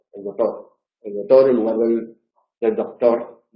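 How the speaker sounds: doctor said as dotor, no c; Galician doctor. Retold or imitated. Teacher imitating Galician speakers' doctor. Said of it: "eso es propio de gallegos".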